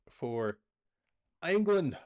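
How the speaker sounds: high, loud British commentator call; attempted British accent. Calling England's corner in a hammed-up British commentator accent. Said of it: "I can't do the accent".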